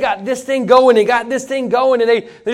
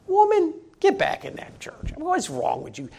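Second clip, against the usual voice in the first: higher, put-on voice of a husband barking at his wife; bossy husband; 6 semitones higher, 9 dB quieter than usual. Husband in the tent ordering his wife back into church, gruff mock command. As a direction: order the woman back inside like a cranky husband.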